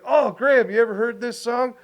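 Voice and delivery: high eager question; excited about the song. Retold or imitated. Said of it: "he's like".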